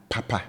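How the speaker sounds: papa with both syllables high. Shown as a demonstration. Teacher demonstrating papa on high tones. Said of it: "I raise my pitch level on both syllables".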